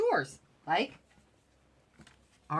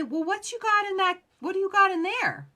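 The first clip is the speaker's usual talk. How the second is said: mock nosy shopkeeper, pitched higher; curious salon owner; 11 semitones higher, 5 dB louder than usual. Salon owner asks the rep what she brought, higher-pitched curious voice. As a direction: play the salon owner peeking at your bag.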